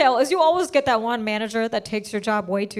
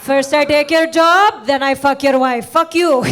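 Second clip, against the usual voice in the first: hammed-up villain; 6 dB louder than usual. Imagined villainous job-taker voice.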